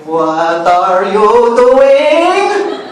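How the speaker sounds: playing mom catching her kid online late; scolding mom. Mom catches her chatting at night.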